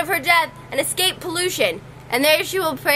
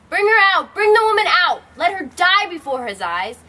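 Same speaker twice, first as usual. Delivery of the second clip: furious royal command; 3 semitones higher, 3 dB louder than usual. Acted. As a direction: bark it like an enraged king. Creon orders execution in rage.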